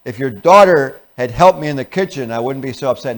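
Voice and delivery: loud, blaming complaint; antagonistic wife. Acted. Wife blaming her husband about the kids, antagonistic. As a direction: point the finger at the kids. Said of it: "Now she's antagonism".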